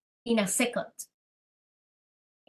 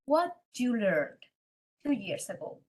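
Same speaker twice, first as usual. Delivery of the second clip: very calm; 4 dB quieter than usual. Retold or imitated. Calm boyfriend asking his panicking girlfriend a question, very calm. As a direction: imitate a calm, unhurried questioner. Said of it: "because he's very calm".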